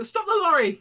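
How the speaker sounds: high, loud yelled command; urgent shout. Acted. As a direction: yell it from a vehicle window. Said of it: "shouting out the window".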